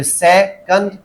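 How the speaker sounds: सेकंड slowly broken into two beats; syllable by syllable. Shown as a demonstration. Teacher counting the syllables in the word, slow split सेकंड. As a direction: say से, then कंड, slowly apart. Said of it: "सेकंड में कितने syllables हैं".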